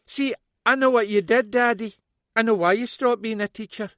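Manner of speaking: loud high bitter accusation; bitter daughter. A narrator's reading. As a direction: spit the accusations at him.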